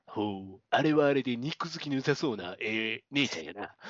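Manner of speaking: leering character in bogus Osaka dialect; fake Osaka dialect. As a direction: play up a phoney Osaka accent. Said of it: "エセ大阪弁みたいな".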